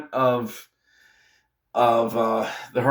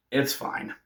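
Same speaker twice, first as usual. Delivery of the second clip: unvoiced, much softer "it's fine"; whispered; 3 semitones lower, 10 dB quieter than usual. Real, not acted. Telling Pens fans to relax, whispered. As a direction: breathe it out as a whisper, resigned. Whispered resignation after the win.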